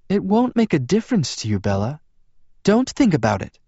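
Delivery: high female character voice, urging her on; encouraging. A narrator's reading. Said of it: "Rosalie encouraged".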